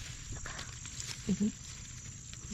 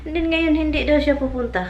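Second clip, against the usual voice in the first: exasperated rant; 6 semitones higher, 6 dB louder than usual. Real, not acted. Ranting about cancelled visit.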